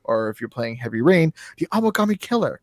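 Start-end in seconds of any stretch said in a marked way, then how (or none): 1.6-2.6 mock French accent. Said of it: "'cause they have a terrible accent".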